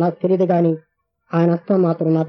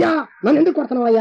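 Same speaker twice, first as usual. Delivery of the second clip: wife's cry; 4 semitones higher, faster than usual. Retold or imitated. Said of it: "కేకలేసి".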